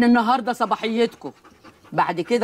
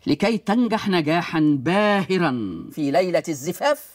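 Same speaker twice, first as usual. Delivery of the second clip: slow, solemn recitation of rules; measured, declamatory instruction; formal book reading; 2 semitones lower than usual. Acted. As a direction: read it out slowly like a grand manual. Grandmother reads out instruction book.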